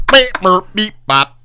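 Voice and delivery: robot beeps. Retold or imitated. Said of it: "someone threw a fucking plug stereo in a pool".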